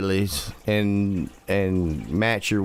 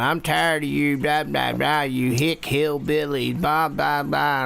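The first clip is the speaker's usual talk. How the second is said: imitated ranting, higher-pitched; mock scolding; 5 semitones higher than usual. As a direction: rattle off a mock tirade, pitched up.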